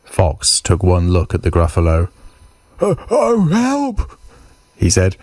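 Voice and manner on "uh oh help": fox startled into a high voice; alarmed fox. Acted. Fox takes one look at the Gruffalo, high alarmed voice.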